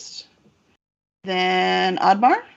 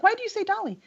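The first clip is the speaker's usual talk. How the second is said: imitating player; 12 semitones higher, faster than usual. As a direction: imitate a puzzled player in a high voice. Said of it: "you're like".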